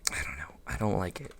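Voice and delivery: breathy whisper, muttered to self; whispered dislike. Real, not acted. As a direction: whisper it under your breath.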